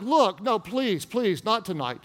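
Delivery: mock pleading. Tired husband putting off his wife, mock pleading. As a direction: plead weakly, trailing down in mock weariness. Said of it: "I beg her and plead with her".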